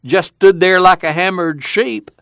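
high, gleeful storytelling; giggly glee. A narrator's reading. Son teasing Ma about fooling her, giggly glee. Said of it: "Old Tom giggled".

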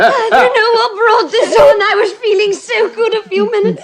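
laughing and crying at once, mildly; Gwen, embarrassed by her tears, tells the others with a teary laugh; crying through a laugh. Acted. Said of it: "I haven't cried since I was fourteen".

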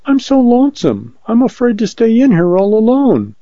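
high-pitched, lonely woman's plea; frightened pleading. A narrator's reading. Lonely woman begs the man outside, frightened pleading.

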